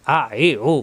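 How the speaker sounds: আ, এই, ও fast and throat-pressed; quick pressed vowels. Shown as a demonstration. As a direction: fire off আ এই ও with pressure. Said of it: "উচ্চারণ হবে দ্রুত".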